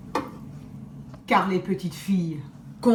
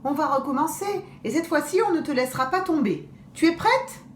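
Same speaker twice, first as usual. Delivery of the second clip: put-on girl's coaxing; 5 semitones higher, faster than usual. Tao coaxes the wolf.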